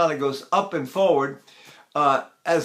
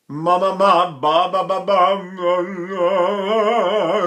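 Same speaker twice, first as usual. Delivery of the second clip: sung syllables with a slightly teary timbre, louder; crying-thought tone; 4 dB louder, much slower than usual. Shown as a demonstration. Teacher sings "ma" and "ba" thinking of crying. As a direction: sing the syllables as if about to cry. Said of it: "So I'm crying".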